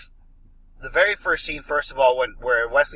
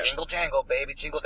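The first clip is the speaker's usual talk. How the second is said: lightly imitated southern accent; 4 dB quieter than usual. Film fan mimicking an actor's line, southern accent. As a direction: quote the actor with a touch of southern twang. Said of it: "he always said it with a southern accent".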